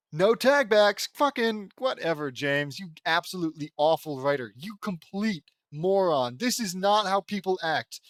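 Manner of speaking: angry rant. Real, not acted. Ranting at writer.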